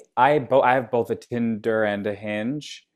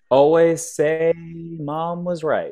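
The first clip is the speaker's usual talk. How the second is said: laughing; 6 semitones higher, 3 dB louder, much slower than usual. Real, not acted. Laughs through the line.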